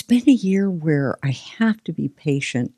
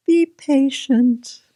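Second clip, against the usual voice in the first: higher, slow mock-wise; slow preachy; 11 semitones higher, slower than usual. Guest stating her lesson in a mock slow voice. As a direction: draw it out like a sage. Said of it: "delivers lesson in put-on voice".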